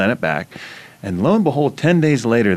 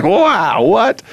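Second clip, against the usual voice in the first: high, bright disbelief, rising at the end; amazed; 11 semitones higher, 3 dB louder than usual. Retold or imitated. Player stunned by his own blocks, amazed. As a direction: marvel at your own blocks, laughing.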